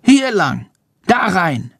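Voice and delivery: high-pitched little bat voice; calling bat. A narrator's reading. Bat guides the boy further in, high calling voice. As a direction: call out high, pointing the way. Bat character calls directions.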